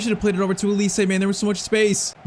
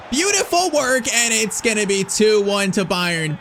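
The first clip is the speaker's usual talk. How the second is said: excited goal call; 4 semitones higher, slower than usual. Real, not acted. Goal scored on counterattack.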